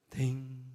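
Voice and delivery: low, softly ringing "ding"; imitated bell toll. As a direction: mimic a bell stroke left to resonate. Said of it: "제아의 종소리 있잖아요".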